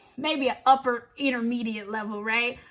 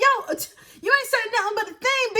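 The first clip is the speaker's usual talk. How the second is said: cocky comeback; 7 semitones higher, faster than usual. Retold or imitated. Acted comeback in the quarrel.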